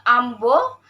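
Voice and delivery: "ambo" ending on o; Kelantan dialect pronunciation. Shown as a demonstration. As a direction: end "ambo" on a rounded o. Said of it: "Contoh dialek Kelantan".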